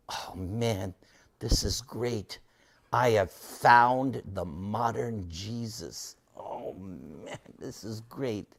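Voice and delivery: slow, quiet amazement, as if face down on the floor; hushed awe. Retold or imitated. Awed aside while bowed on floor.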